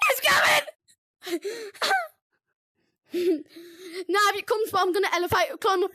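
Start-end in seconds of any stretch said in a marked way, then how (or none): 0.1-1.9 drawn-out panicked wail. Real, not acted. Warning the other players the monster is close, slow wailing cry.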